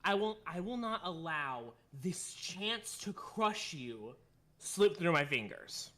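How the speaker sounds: put-on slow, careful German-accented menace. Von Karma threatening Edgeworth, slow careful German accent. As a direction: lean into the German accent word by word. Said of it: "This is a hard one".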